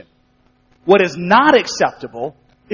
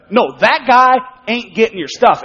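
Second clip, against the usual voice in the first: mildly emphatic rebuttal, leaning on "that guy"; 4 dB louder than usual. Acted. Preacher as God correcting Abram, mildly emphatic. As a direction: firmly cut him off on "no, that guy". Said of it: "God's response is emphatic".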